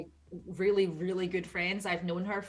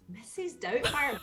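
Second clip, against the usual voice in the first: puzzled reaction; 4 semitones higher than usual. Retold or imitated. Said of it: "And I'm like".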